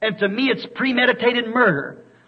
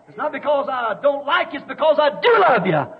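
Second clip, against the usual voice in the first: raised, insistent preaching voice; impassioned plea; 5 semitones higher than usual. Real, not acted. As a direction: plead it hard from the pulpit. Impassioned plea after the screamed warning.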